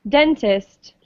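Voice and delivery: "Dentist" as DEN-tist; first-syllable stress. Shown as a demonstration. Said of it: "stress on the first syllable".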